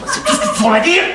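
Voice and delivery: high-pitched exasperated yell; shouting. Acted. Man told not to shout, yelling back in exasperation. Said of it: "Ne crie pas, Robert!".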